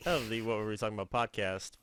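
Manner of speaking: podcast host intro. Pretend. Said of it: "Such a smooth intro there".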